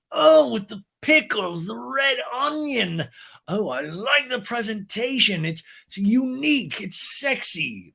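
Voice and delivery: high, slow, posh voice; Lisa impression. Lisa inspects the sandwich, high slow posh voice. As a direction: savor each word like a grande dame.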